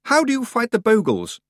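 out of breath while jogging; panting. Acted. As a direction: gasp it out on the run. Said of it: "he panted".

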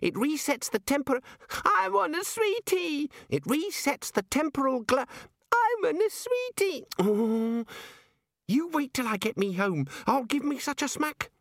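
put-on very high, whining little-kid voice; squeaky child tantrum. A narrator's reading. Child-sized wizard battles his toddler self, high whining squeak. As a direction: wail like a toddler demanding sweets.

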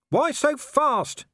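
called out over rattling wheels; shouted over the coach. A narrator's reading. Vimes shouts up to Igor driving the coach, loud. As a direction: raise it over the noise. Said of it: "he shouted".

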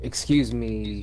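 slow, mid-sip apology; while sipping a drink. Real, not acted. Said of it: "I'm drinking vodka and orange O J".

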